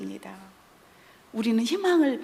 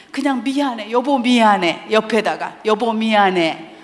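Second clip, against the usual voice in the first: loud demo apology; 7 dB louder than usual. Shown as a demonstration. Demonstrating an apology to the spouse.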